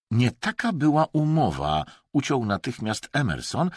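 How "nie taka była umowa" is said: raised, firm objection; gruff cut-in. A narrator's reading. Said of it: "tak szorstko". (szorstko, ucinając rozmowę)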